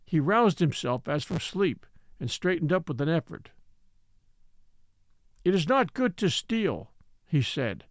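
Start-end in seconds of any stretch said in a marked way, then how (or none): 5.4-6.9 lightly voiced elder laying down law; old Ebbets, solemn. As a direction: state the law with measured gravity.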